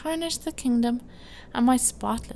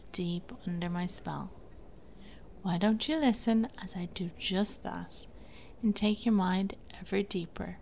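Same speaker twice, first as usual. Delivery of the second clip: right in your ear; 5 dB quieter than usual. Acted. Whispered countdown close to listener.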